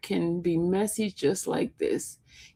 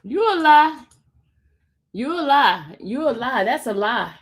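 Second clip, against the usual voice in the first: high, swooping cry of disbelief; indignant denial; 4 semitones higher, 5 dB louder than usual. Real, not acted. Host denying a commenter's claim, indignant denial. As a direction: throw the accusation back, pitched up.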